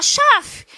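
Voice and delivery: "chave" said as "chaf", pitched high; wrong password pronunciation. Shown as a demonstration. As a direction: end "chave" on an f instead of "vi". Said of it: "mas se fala".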